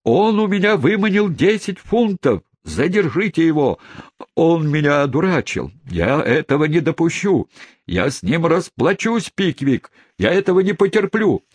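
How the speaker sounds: very high, hysterical indignation; frenzied outbursts. A narrator's reading. Duped gentleman rages at the swindler, in frenzied outbursts. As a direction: rant in a high, frantic voice. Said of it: "бессвязные восклицания, злополучный джентльмен в припадке бешенства".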